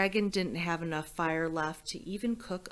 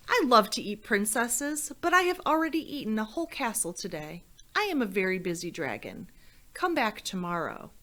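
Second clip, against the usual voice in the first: dragon rattling off his excuse quickly; lightly voiced dragon brushing her off; impatient dragon; 2 semitones higher than usual. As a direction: hurry through it, bored of repeating. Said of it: "and he said".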